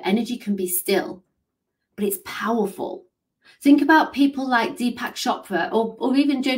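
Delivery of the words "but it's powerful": soft whisper. Shown as a demonstration. Coach showing quiet power, whispered. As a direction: breathe it out quietly. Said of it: "Energy can be quiet".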